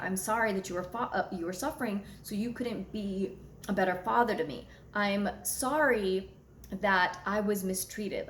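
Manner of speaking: slowing down, gentler apology to herself; slowed, sincere self-apology. Retold or imitated. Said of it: "And then I was like".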